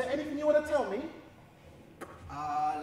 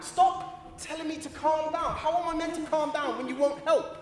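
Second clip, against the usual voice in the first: loud, high angry outburst; agitated outburst; 4 semitones higher, 7 dB louder, slower than usual. Acted. Claimant rails at clerk who won't help, agitated outburst. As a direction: explode at being told to calm down. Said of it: "if you can just calm down".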